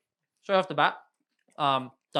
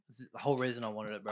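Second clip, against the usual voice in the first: hushed aside, fast; whispering; 3 semitones lower, 7 dB quieter, faster than usual. Real, not acted. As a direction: whisper it quickly. Aside whisper about the beer.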